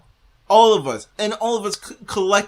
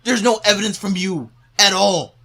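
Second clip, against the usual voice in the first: raised, high-pitched protest; exasperated rebuttal; 4 semitones higher, 3 dB louder than usual. Real, not acted. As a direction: push it out in exasperation.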